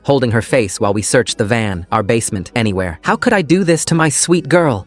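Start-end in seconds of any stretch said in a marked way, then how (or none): 3.0-4.8 sobbing. A narrator's reading. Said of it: "My wife was still sobbing".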